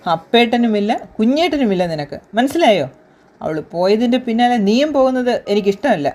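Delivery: father warns his daughter after the beating; stern warning. Acted. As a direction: lay down the law firmly.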